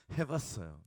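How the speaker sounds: sheepish chuckle on 해봤어요; sheepish laughing repeat. Shown as a demonstration. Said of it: "여기 경찰분이 계시는데".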